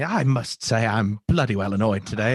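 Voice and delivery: mildly annoyed English gent impression; lightly put-on proper English grumble; English twang. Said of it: "this wee kinda English twang".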